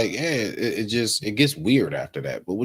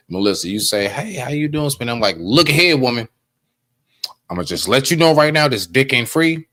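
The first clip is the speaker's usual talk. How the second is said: louder, higher, half-joking blunt rant to a woman; mock loud rant; 4 semitones higher, 6 dB louder than usual. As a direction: hammer it out like a fed-up guy laying down terms. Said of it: "be like".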